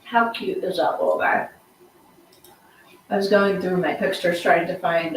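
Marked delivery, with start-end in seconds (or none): 3.1-5.2 chewing ice while talking; ice in mouth. Real, not acted. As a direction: talk around ice cubes. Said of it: "I'm chewing on ice".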